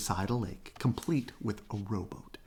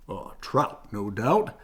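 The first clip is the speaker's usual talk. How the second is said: supreme confidence; 4 dB louder, slower than usual. A narrator's reading. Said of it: "with supreme confidence".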